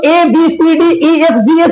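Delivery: ए बी सी डी ई एफ जी एच as English alphabet names; letter-name recitation. Shown as a demonstration. Teacher shows how learners have been reading, letter-name recitation. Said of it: "जो पढ़ते आ रहे हो".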